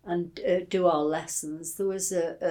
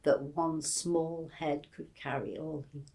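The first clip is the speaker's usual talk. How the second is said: gently recited verse, voice dropping at the end; reciting Goldsmith; 3 semitones lower than usual. Retold or imitated. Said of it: "and it goes".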